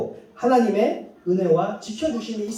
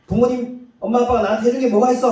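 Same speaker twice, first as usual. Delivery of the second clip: quick, louder bratty retort; ungrateful child; 4 semitones higher, 4 dB louder, faster than usual. Retold or imitated. Preacher mimicking a child sassing parents, fast and bratty. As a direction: fire it off like a sulky teen. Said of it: "하듯이".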